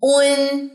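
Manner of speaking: उन with rounded lips, long humming N; slow, sustained उन on a level note; rounded-lip demo. Shown as a demonstration. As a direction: round the lips for उन, then hold the N. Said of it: "पेश पे होंठ गोल होंगे".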